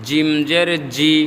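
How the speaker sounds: 'জি' with a hard j. Shown as a demonstration. Teacher compares letters, 'জি' hard from mid-tongue. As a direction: make 'জিম' and 'জি' firm j sounds. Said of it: "শক্ত করে".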